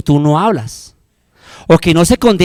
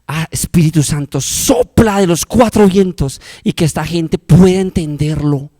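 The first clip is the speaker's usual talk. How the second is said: model prayer; 3 semitones lower than usual. Shown as a demonstration. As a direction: pray humbly on your knees. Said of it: "arrodíllate".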